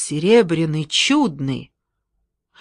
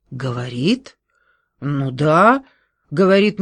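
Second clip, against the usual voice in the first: plain reading voice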